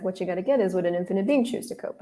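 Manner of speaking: quick, offhand and understated, barely leaning on any word; without much emphasis. Retold or imitated. Gary casually tossing the key question to her, understated. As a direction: toss it off like it's no big deal. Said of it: "he didn't even say it with that much emphasis".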